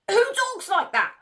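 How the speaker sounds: can you believe this, outraged; incredulous. Real, not acted. Mocking the wife's quote, incredulous. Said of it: "Who talks like this?".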